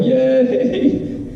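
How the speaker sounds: high mock cheer from the back; a giddy, high yay from the back row; teachers cheering. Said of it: "the teachers back there going".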